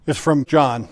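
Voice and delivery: ordinary talk, nothing marked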